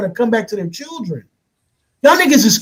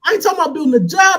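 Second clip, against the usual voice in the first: higher, shouted insistence; insistent shout; 4 semitones higher than usual. Real, not acted. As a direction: raise it over the other guy. Repeating point louder, arguing.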